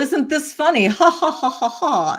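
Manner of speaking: high, loud mock gloating with ha-has; hammed-up jeering laugh; alcoholic mind. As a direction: play a drinker amused at someone's discomfort, laughing it off. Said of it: "he could have just been the alcoholic mind".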